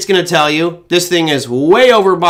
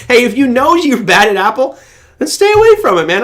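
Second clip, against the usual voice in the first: emphatic; 8 semitones higher, 4 dB louder than usual. Real, not acted. Urging viewer off Apple.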